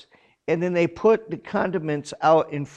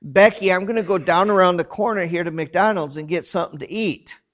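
calling across the van; 3 semitones higher, 4 dB louder than usual. Retold or imitated. Says to his wife across the van.

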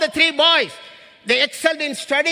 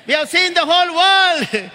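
emphatic son; 4 semitones higher, 5 dB louder than usual. Retold or imitated. Repeated son's line, louder.

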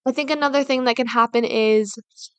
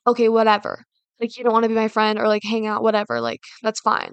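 passive aggressive; 2 semitones lower than usual. Retold or imitated. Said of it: "and be really passive aggressive".

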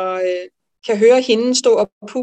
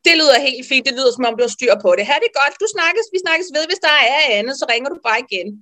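amused colleague; 4 semitones higher, faster than usual. Retold or imitated. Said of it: "skreg hun af grin".

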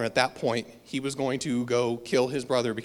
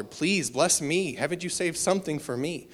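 mild retold begging; 3 dB quieter than usual. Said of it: "where Esau's begging his father".

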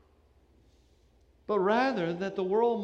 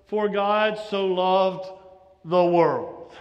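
slow and louder, "God" hit firmly; stress on God, slow; 5 dB louder, much slower than usual. Shown as a demonstration. Preacher showing a third inflection, slow and emphatic. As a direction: hammer "God", one word at a time. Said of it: "changing the inflection on various words".

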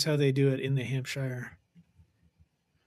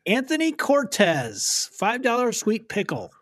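slow, higher announcer call of the name; mock announcer; 6 semitones higher than usual. Host announces a contestant with a slow, higher call. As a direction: draw the name out like a ring announcer.

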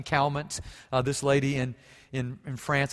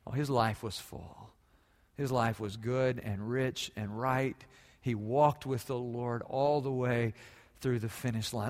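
tender remembrance; 2 semitones lower than usual. Acted. Softer memorial passage.

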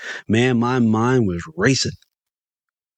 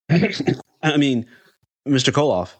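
sheepish correction, a little higher; embarrassed; 7 semitones higher, much slower than usual. A narrator's reading. Fan correcting himself to his idol, embarrassed. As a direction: backtrack with mild embarrassment. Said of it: "I said embarrassingly".

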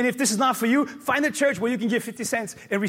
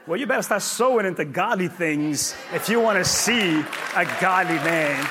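preaching shout; 3 semitones lower than usual. Real, not acted. Pastor warning single women, shouting. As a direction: hammer it home.

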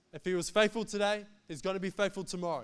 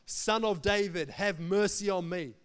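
louder, drawn-out plea; crying out more; 4 dB louder than usual. Acted. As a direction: call out insistently, without a full shout. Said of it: "he cried out all the more".

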